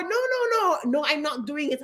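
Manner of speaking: mock sassy refusal; attitude. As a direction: snap no at the boss. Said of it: "and have an attitude".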